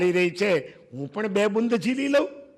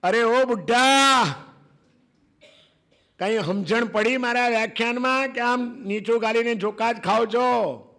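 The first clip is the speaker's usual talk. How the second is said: haughty call from afar, voice raised on the first words; calling out loud; 4 semitones higher than usual. Acted. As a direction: scholar calls out to the old man with a scornful yell. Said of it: "યશો Vijayji બૂમ પાડે છે".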